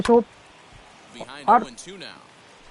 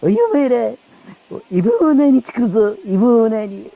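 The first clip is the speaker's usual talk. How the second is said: threatening manager; 4 semitones higher than usual. Acted. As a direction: lay down the punishment like an angry boss. Manager threatens the whole team.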